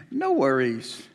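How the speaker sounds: "No worries" said slow and longing; dreamy wish. Acted. Preacher wishing for a worry-free life, dreamy and slow. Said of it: "And I thought to myself".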